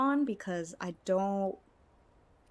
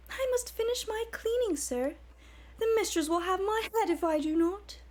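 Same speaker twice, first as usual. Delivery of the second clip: much higher, coy, prim falsetto maid voice; 13 semitones higher than usual. Acted. Argonian maid fending off her master in a high, coy voice. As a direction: play the shy maid protesting sweetly.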